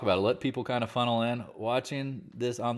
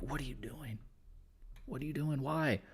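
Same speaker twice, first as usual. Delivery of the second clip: exasperated shaking; 4 semitones higher, 11 dB quieter than usual. Retold or imitated. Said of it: "shake 'em like".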